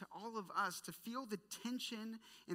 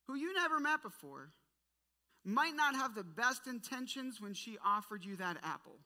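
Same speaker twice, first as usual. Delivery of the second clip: incredulous; 3 semitones higher, 4 dB louder than usual. Acted. Mocking Snow White's foolishness.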